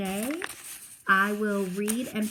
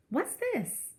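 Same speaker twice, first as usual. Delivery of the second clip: higher, fussy mother voice; mock Mama; 10 semitones higher than usual. Narrator mimicking his mother's complaints, lightly voiced fussing mom.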